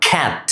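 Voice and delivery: "cat" with open front "ae"; short A sound. Shown as a demonstration. Teacher showing the vowel to learners, "cat" with "ae". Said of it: "এখানেও অ্যা sound হয়েছে".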